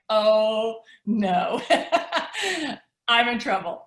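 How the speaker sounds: laughing through a mock panic; half-laugh the worry out; giggling "oh no, I'm in trouble". Mock panic in retold moment.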